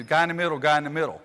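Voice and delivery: called out loud to a teammate; calling out. Shown as a demonstration. Coach to players, loud call-out. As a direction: call it out so they hear you. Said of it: "start yelling at Julian".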